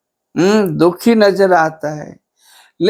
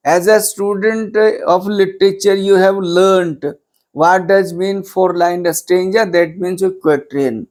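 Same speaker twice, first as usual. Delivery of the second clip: slow dictation; much slower than usual. Acted. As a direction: spell out the English note word by word, very slowly. Teacher dictating English note slowly. (धीरे-धीरे notes लिखवाते हुए)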